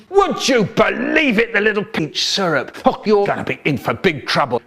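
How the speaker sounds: a high, hammed-up yell that settles back down by the end; mock scream. A narrator's reading. Store worker screaming at the kids over smashed tellies, mock yell. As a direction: play it as a shop worker starting to scream at the boys, then easing off. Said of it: "and he screamed".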